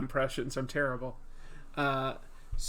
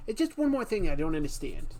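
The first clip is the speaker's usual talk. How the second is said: quicker, a bit higher puzzled detective; a hint of Columbo, half-amused; Columbo impression; 4 semitones higher, 4 dB louder, faster than usual.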